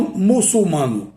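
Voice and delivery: "muçulmano" misspoken with the L in the first syllable; forma incorreta. Shown as a demonstration. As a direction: mispronounce "muçulmano" as "mulsumano". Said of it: "E não". ("muçulmano" dito errado, "mulsumano")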